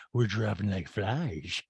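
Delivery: low, drawn-out mock gloom; slow it right down, low in pitch; Rena impression. Rena comments on missing guests, low and slow. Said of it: "And Rena goes".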